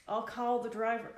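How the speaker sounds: put-on a loud, half-hearted try at a heavy Spanish accent; attempted Spanish accent. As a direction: push out a clumsy Spanish accent for the clerk. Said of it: "the clerk spoke in his heavy Spanish accent".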